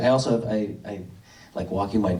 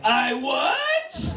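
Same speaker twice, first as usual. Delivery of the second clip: mock surprised reply; 14 semitones higher than usual. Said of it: "So I just write back".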